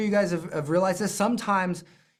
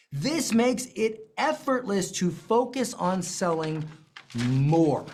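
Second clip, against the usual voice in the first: slow reread; slower than usual. Shown as a demonstration. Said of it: "Please circle that".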